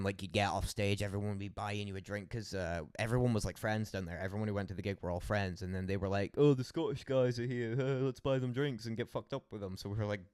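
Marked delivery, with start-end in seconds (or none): 6.4-9.8 excited. Retold or imitated. Friends at gig quoted excitedly.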